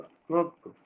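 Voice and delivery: ക്രോക്സ് with a long o vowel; corrected pronunciation. Shown as a demonstration. Teacher repeating the corrected name for students, ക്രോക്സ് with oh. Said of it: "ക്രൂക്സ് എന്നല്ല അത് പറയുന്നത്".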